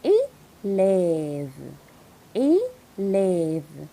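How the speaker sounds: Élève: closed é, then open è. Shown as a demonstration. Teacher splitting élève into closed and open sounds. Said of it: "le son fermé".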